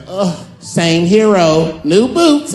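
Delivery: slow sigh rising high on boots; campy superhero catchphrase. Retold or imitated. The superhero brushing off a grateful citizen, slow and campy. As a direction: toss off the catchphrase with flair.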